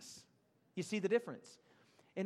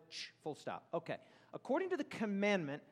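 usual speaking voice

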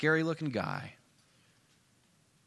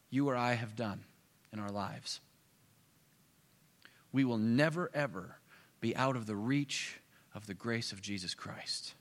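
ordinary talk, nothing marked

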